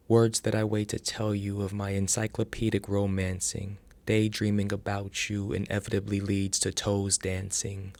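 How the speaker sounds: spoken-word poem in steady rhythm; measured, rhythmic recital of a love poem; poetry reading. Acted. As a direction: recite it with an even, rolling cadence. Recites own poem aloud.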